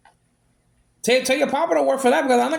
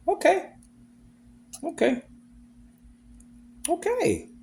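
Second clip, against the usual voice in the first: sarcastic okay; 7 semitones higher, 5 dB quieter than usual. Real, not acted. Sarcastic repeated okays.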